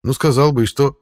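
dismissive snort of a cat. Acted. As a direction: brush it off with a snort. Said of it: "фыркнул кот".

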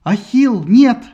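high, very loud cry; mother shouting to stop her son; alarmed shout. A narrator's reading. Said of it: "знакомый голос".

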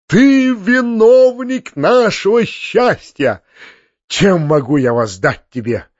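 high, loud, slow outpouring of rapture; frenzied delight. A narrator's reading. The uncle thanking Foma in ecstatic rapture. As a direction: gush with overwhelming gratitude. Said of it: "в исступлённом восторге".

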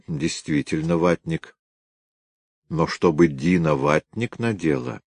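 understated, mildly conceding tone; conciliatory. A narrator's reading. Detective conceding a point to his colleague, mildly conciliatory. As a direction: give in a little, still doubtful. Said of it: "примирительно сказал".

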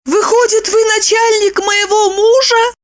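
high, shocked; shocked Lipochka. A narrator's reading. Lipochka realising Roman is the boss.

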